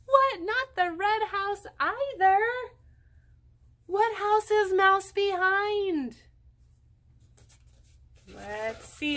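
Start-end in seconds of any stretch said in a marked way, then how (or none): 0.1-6.2 high, loud hammed-up what; big playful disbelief for kids; mock surprise. Mouse still not found.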